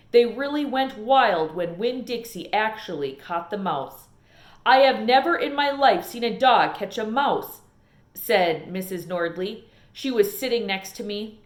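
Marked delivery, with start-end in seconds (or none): 4.7-7.6 louder amazed exclamation; amazed exclaiming. Acted. Missus Nordley exclaiming in amazement at the dog. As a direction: marvel at it out loud.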